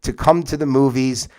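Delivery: slow teacher-style reading of sample sentences; slow example sentences. Shown as a demonstration. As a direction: read the example out slowly and clearly. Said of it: "So these are pronouns".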